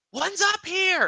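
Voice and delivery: high-pitched goblin holler; shrill-pitched, loud goblin call; goblin shout. Acted. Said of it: "each going to shout".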